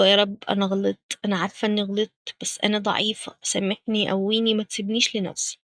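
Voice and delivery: humble contrite prayer. Shown as a demonstration. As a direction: ask forgiveness meekly, a hint of brokenness. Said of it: "بحياء، بكسرة، بعياط". (دعاء بانكسار خفيف وصوت أوطى شوية)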